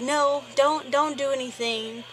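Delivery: urgent plea. Retold or imitated. Narrator pleading with her friend not to fight, urgent. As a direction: hold your friend back fast. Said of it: "And I was like".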